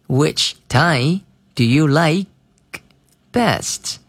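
slow, with a pause before best; slowed drill read; slow, broken read. Shown as a demonstration. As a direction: lay each word down slowly, then lift best. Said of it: "注意这个like best这个发音".

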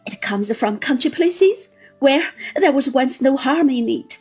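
high, loud despairing lament. Acted. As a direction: pour out hopeless grief. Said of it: "the tone of those words".

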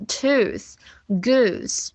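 "tooth, goose" with long oo from the throat; careful back oo in "tooth, goose"; throaty OO. Shown as a demonstration. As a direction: model the corrected oo in "tooth, goose". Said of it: "这样子啊".

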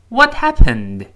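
WHAT and HAPPENED both hit hard, slow and loud; both words stressed. Shown as a demonstration. Teacher modelling the question for students, both words stressed. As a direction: punch What and happened evenly. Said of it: "这两个单词都重读".

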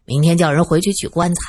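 mumbling through a full mouth; talking while chewing food. Acted. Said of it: "嘴里塞得满满的，含糊不清地说".

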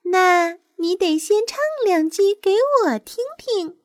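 light, high bird voice, friendly. A narrator's reading. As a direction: gently encourage a would-be pupil. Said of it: "夜莺友好地说着".

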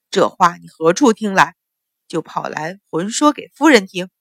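a touch of enraged interrogation; furious demand. Acted. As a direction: demand where she heard it, seething. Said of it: "阮一鸣怒极".

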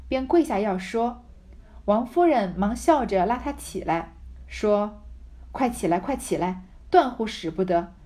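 measured, emphatic reading aloud; deliberate storybook delivery; story narration. A narrator's reading. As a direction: read the classic novel out clearly, with pauses between phrases. Reads the novel aloud.

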